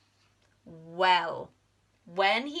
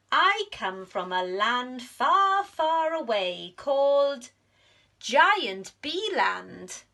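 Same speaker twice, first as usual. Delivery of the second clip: louder, slow storytelling boast; grand boast; 4 semitones higher, 5 dB louder than usual. Acted. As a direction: spin a tall tale slowly. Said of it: "said Norman".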